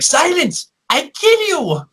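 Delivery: high, squawky puppet shout; Achmed impression. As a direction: bark it like a cartoon terrorist puppet. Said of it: "one step away from being like".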